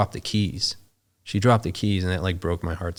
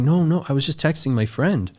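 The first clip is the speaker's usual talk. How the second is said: imitating a scared, high-pitched denial; 8 semitones higher, 3 dB louder than usual. Frightened woman denying she filmed him, high and scared. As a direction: plead innocence, pitched up in fright. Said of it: "she just got real scared".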